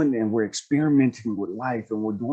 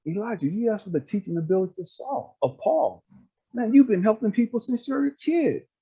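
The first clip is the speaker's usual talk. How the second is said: lightly voiced affirming speaker, pitched up; imitating an earnest, higher-pitched encourager; God; 5 semitones higher than usual. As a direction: build them up point by point, higher and emphatic. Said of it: "God was like".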